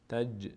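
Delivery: تج with a slight bounce on ج; qalqala bounce. Shown as a demonstration. Teacher demonstrating qalqala on تج. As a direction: let the ج in تج vibrate briefly.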